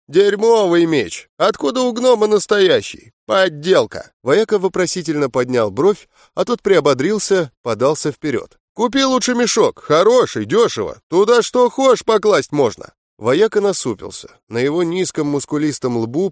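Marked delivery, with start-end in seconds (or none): 0.1-4.1 slow scornful drawl; contemptuous drawl. Acted. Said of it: "презрительно протянул". 8.7-12.9 pushy peddler. Acted. Rival pushes his sacks.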